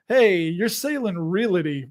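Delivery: "realty" slowly with an extra vowel, ree-li-tee; mocking mispronunciation. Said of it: "guy making fun of people like".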